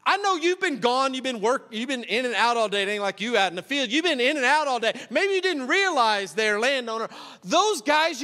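a hint of a worker griping to the boss; grumbling worker. Grumbling workers voiced in parable.

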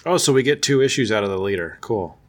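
mildly sarcastic, understated delivery. Real, not acted. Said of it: "I was being sarcastic".

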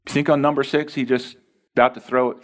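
ordinary talk

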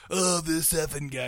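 softly imitating a half-hearted groan; mock phoned-in delivery. Host mocking his co-host's reaction, imitating a phoned-in delivery. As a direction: mimic someone going through the motions. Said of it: "you phoned that in".

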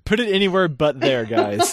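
laughing through a joke; chuckling while saying it. Real, not acted. Joking about the show name.

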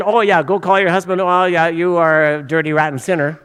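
sarcastic parody of condemnation; mock accusing. Preacher parodying bad evangelism, mock accusing. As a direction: pile on the blame in mock judgement. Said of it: "That's not the way to do evangelism".

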